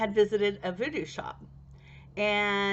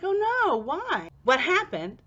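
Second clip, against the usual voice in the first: high, loud alarmed retold cry; 8 semitones higher, 4 dB louder than usual. Hearing the spell failed, high alarmed questions. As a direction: gasp out the worry. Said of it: "And I was like".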